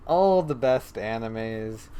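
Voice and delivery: slow, drawn-out mock praise; sarcastic. Real, not acted. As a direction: draw it out with sarcastic enthusiasm. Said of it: "Obviously, I'm being sarcastic".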